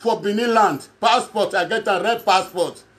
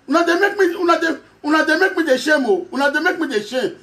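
laughing embarrassment; 6 semitones higher, faster than usual. Real, not acted.

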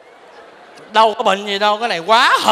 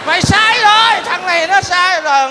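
mock scolding shout; 4 semitones higher, 3 dB louder than usual. Scolding friend over snake blood.

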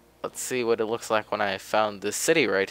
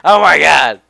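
high, loud delighted squeal; excited squeal; 7 semitones higher, 16 dB louder than usual. Real, not acted. Streamer startled and thrilled by the foxes, loud high squeal.

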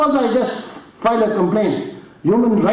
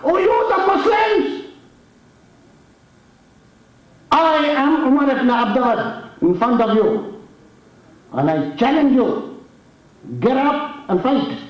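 mock challenge; 3 semitones higher than usual.

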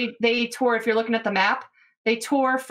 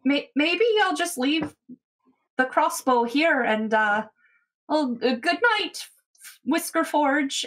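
hesitant, higher-pitched character voice; tentative goodnight with halting pauses; Scylla; 5 semitones higher than usual. Acted. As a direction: excuse yourself haltingly, pitched up. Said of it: "sits there and goes".

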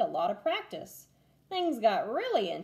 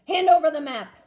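louder gruff demand; pirate demand; 6 semitones higher, 11 dB louder, faster than usual. A narrator's reading. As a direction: order them to hand it over. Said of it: "said Braidbeard".

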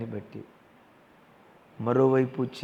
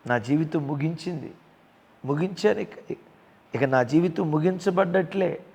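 louder, higher mock cry of a ruined life; imitated despair; 5 semitones higher, 4 dB louder than usual. Believer imagining life is over, raised despairing cry. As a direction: voice someone giving up on life. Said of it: "అన్నట్లుగా".

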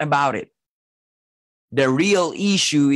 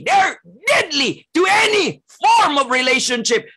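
full-force preaching; 12 semitones higher than usual. Acted. Pastor warning his congregation about selfish pride, building preaching. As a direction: preach it with rising fire.

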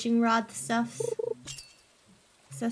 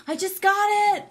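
gasping with delight; breathless happy outburst; excited; 8 semitones higher, 4 dB louder than usual. Real, not acted. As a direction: squeal it out, thrilled. Excited gasp at getting item.

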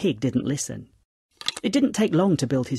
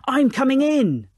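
high, raised announcing shout; wolf's shout; 9 semitones higher, 5 dB louder than usual. A narrator's reading. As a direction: call a gleeful-sounding threat down the chimney. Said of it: "he shouted".

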